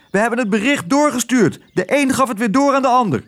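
hoog vogelstemmetje; pratende spreeuw. Acted. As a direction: meld het hoog, als een spreeuw. Een spreeuw doet verslag. (hoge spreeuwenstem)

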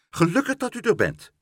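high, loud cry of relief; calling out. A narrator's reading. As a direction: call out urgently to the official. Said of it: "riep mevrouw Helderder".

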